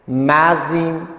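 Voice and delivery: مزین drawn out slowly, syllable by syllable, as one joined word; slow linked reading. Shown as a demonstration. Teacher showing students the linked syllables, slow drawn-out demo. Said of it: "هر دم از این".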